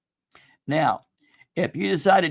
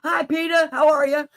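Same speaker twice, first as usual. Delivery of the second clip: sing-song greeting; 9 semitones higher than usual. Real, not acted.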